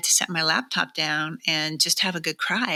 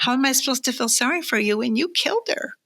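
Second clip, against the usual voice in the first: teasing husband; 7 semitones higher than usual. Retold or imitated. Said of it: "He said".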